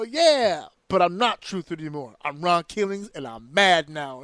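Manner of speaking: loud, menacing wrestler voice; loud mock tough guy; mock angry wrestler. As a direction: growl it like a heel turning. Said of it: "And they go".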